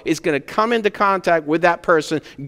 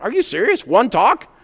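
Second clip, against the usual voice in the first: a mock reply, high and disbelieving; incredulous; 5 semitones higher than usual. Pastor retelling his reply to parents, mock incredulous. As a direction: pitch jumps higher in mock disbelief. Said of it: "It's like".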